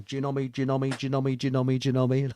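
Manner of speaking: lightly imitated radio chant, even pitch; repeated call sign. Soldiers calling Genomi over the radio, imitated monotone chant. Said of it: "like this, you see".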